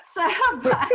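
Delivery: laughing. Real, not acted. Laughs at the host's remark.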